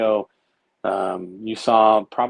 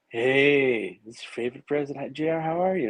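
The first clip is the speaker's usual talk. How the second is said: higher, breezy presidential greeting, lightly voiced; imitating Trump; 4 semitones higher than usual. President greeting him on the phone, a light higher impression. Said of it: "I get a click".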